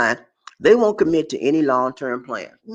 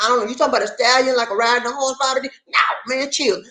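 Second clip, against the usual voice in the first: lightly voiced confused guy, higher; high mock-puzzled listener; 8 semitones higher than usual. Man asking Bobby D what stagnant means, higher and baffled.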